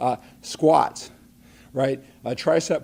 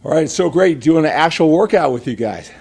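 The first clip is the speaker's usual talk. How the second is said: out of breath; 5 dB louder than usual. Real, not acted. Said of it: "Let me catch my breath here".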